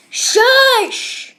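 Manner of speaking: sharp shush. Pretend. Hushing another.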